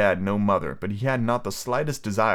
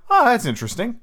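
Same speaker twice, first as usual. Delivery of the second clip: mocking girl voice; 13 semitones higher, 5 dB louder than usual. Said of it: "and you just go".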